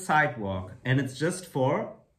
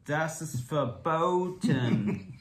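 very slow, theatrical German; stretched-out mock-German pronouncement; 3 semitones higher, much slower than usual. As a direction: echo a hammed-up German ban, drawn out. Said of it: "like, the German".

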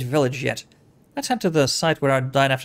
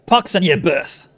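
put-on Anna's made-up accent; 5 dB louder than usual. Anna cursing after spitting, put-on accent. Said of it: "it's her accent".

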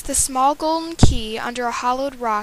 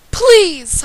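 high, loud desperate plea; crying out; 9 semitones higher, 11 dB louder than usual. Acted. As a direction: cry out please. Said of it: "I cried".

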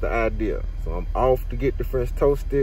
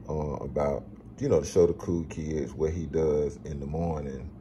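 quiet; 5 semitones lower, 6 dB quieter than usual. Real, not acted. Plotting prank quietly.

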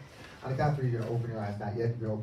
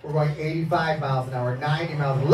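excited driving hype; 3 semitones higher, 8 dB louder, faster than usual. Pretend. Hypnotist hyping the imaginary drive, loud and excited. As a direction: call the speed like a thrill ride.

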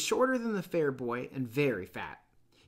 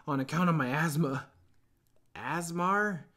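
put-on boastful wheezy kid voice; a touch of pride in it; proud fat boy; 4 semitones higher, 6 dB louder than usual. A narrator's reading. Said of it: "with a touch of pride".

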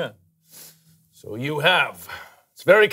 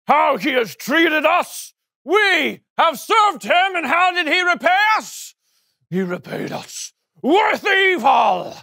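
angry ranting. Acted. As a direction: whip the men into fury. David ranting to his men.

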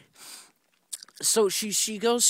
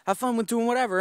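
mom voice; 10 semitones higher, 5 dB louder than usual. Retold or imitated. Mom voiced in retold story.

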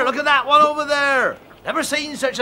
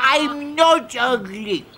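upset protest; slower than usual. Acted. Duckling protests being called ugly.

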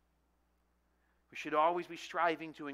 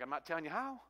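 teasing chuckle; 4 dB quieter, faster than usual. Retold or imitated. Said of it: "I'm like".

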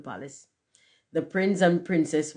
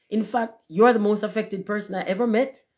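raised, louder retort; emphatic storybook exclamation; crying out; 5 semitones higher, 5 dB louder than usual. A narrator's reading. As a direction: push the accusation out, pitched up. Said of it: "cried the Bengal light".

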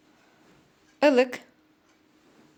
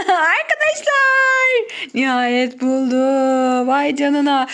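excited shout; 3 semitones higher, 8 dB louder, much slower than usual. Real, not acted. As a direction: cheer loudly at the find. Child finally finds the candy.

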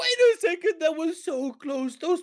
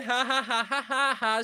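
relieved laughter; 2 semitones lower than usual. Real, not acted. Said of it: "laughing like a little girl".

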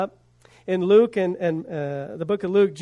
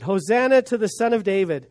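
measured imitation of a cheering crowd; crowd's shout; 3 semitones higher than usual. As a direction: proclaim it like a mild crowd shout. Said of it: "those that followed shouted".

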